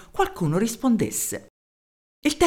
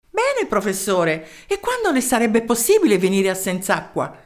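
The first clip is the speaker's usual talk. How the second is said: eager mayor; 2 semitones higher than usual. Acted. Mayor introducing himself to the professor, eager. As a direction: introduce yourself keenly down the phone.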